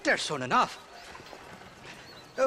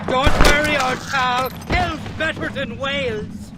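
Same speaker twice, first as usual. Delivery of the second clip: gloating Irishman; 5 dB louder than usual. Acted. Irishman gloats after shootout.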